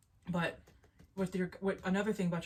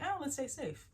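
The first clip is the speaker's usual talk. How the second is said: cautious ego voice; 8 semitones higher than usual. Retold or imitated. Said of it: "My ego was like".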